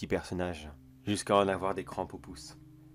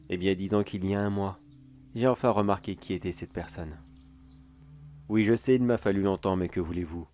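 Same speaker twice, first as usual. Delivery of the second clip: a sly neighbor savoring his secret, a touch louder; theatrical sinister storyteller voice; gloating villain monologue; 4 dB louder than usual. Acted. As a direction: tease the listener like a smug creep.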